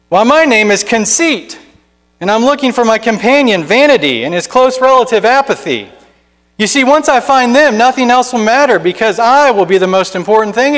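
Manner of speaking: mildly boastful Conceit. Acted. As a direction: preen over every line. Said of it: "He boastfully replies".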